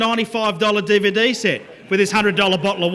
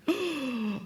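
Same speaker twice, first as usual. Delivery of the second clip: mock shocked gasp; 6 semitones higher, 10 dB quieter than usual.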